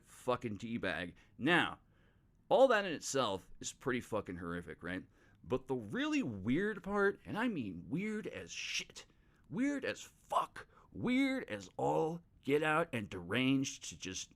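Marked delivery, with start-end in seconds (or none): 5.5-14.3 much higher and slower, building up weirdness; mock dramatic. Telling listeners about the father-in-law, drawn out high and slow.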